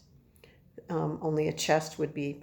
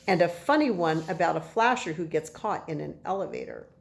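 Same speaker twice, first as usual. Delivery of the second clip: story narration; 3 dB louder than usual. A narrator's reading. Reads the chapter to children.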